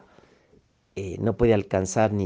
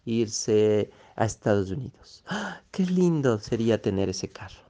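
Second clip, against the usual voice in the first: mock dreamy sigh. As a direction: sigh it out like someone longing for a dream. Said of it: "La gente suspira y dice". (imitación burlona de un suspiro soñador)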